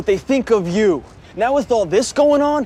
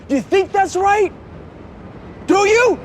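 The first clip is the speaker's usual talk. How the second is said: higher-pitched, indignant questioning; upset confrontation; 5 semitones higher than usual. Acted. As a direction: press the questions, voice climbing. Son confronts his father, upset.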